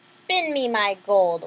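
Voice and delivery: slow royal order; commanding king. Acted. King orders Isabel in the tower, slow and commanding. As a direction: order it slowly, like a stern king. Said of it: "ordered the king".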